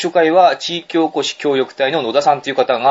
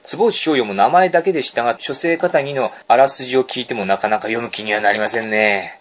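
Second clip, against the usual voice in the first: mail reading. Acted. Radio host reading a listener's mail aloud, measured mail reading. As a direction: read a letter out in unhurried phrases.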